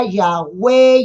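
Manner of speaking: "Yahweh" said the English way, YAH-way; English-style Yahweh. Shown as a demonstration. Pastor citing a foreign pronunciation of the name. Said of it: "Hay algunas pronunciaciones por allá afuera".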